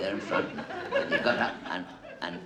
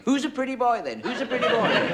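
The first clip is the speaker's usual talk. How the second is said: high, chirpy parrot squawk; budgie voice; 12 semitones higher, 4 dB louder than usual. Retold or imitated. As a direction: mimic a talking budgie, pitched up. Budgie's repeated phrase mimicked.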